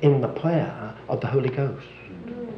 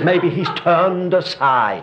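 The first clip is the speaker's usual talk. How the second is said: prim polite reading; slower than usual. Retold or imitated. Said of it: "Yours says".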